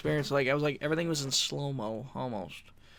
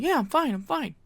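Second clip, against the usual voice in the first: brushing it off; 10 semitones higher than usual. Retold or imitated. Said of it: "I'm like".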